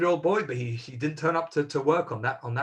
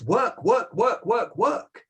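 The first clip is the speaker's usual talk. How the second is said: higher, louder work repeated like a grind; mock drudgery; 7 semitones higher, 3 dB louder, much slower than usual. Real, not acted. Rabbi mocking life without a day of rest, a repetitive chant. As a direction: hammer the word like a treadmill.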